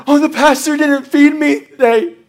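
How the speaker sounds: lightly acted indignation; mad churchgoer. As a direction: imitate a disgruntled church member's grumble. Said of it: "and they get mad".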